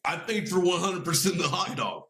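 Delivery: lightly voiced comic rant, insistent; Bill Burr rant. Copying a comedian's rant about condiments, mock indignant. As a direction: hammer the hot dog line like a stand-up bit. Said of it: "I'm gonna copy Bill Burr".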